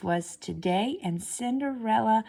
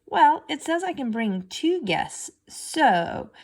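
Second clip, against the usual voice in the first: louder, higher start fading into a hanging so; trailing off; 8 semitones higher, 5 dB louder, slower than usual. A narrator's reading. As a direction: let the sentence hang and trail off. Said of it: "her voice trailed off".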